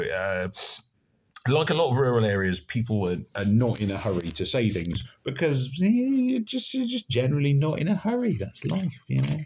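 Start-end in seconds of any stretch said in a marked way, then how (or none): 1.5-9.4 exaggerated West Country Somerset accent, higher pitched; rural Somerset drawl. Shown as a demonstration. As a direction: play an unhurried Somerset local. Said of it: "sort of drawl accent".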